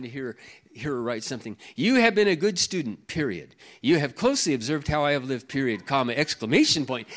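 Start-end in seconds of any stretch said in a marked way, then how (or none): 1.8-7.1 reads every period and comma out loud; mock dictation, punctuation spoken aloud; Kathy's email voice. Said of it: "That's how she talks".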